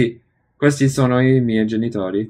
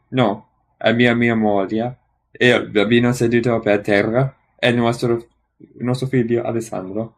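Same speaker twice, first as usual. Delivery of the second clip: speaking through hiccups; hiccuping. Real, not acted. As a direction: hiccups breaking the lines. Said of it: "Sorry, hiccuping".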